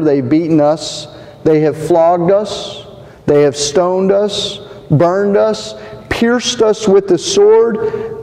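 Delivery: rising, pressing pep-talk preaching; rally the congregation like a coach; rousing preaching. Acted. Preacher firing up the church like a coach, rousing sermon.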